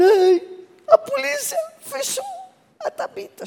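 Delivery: high-pitched mock wailing; imitated crying. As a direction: wail the news as if in tears. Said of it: "eles chegaram lá no seminário chorando". (imitando choro, voz bem aguda)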